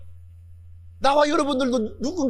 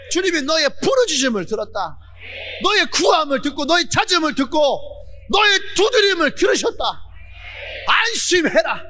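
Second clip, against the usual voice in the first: rising proclamation; 3 semitones higher than usual. Acted. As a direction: swell until the good news rings out. Comfort swells into proclamation.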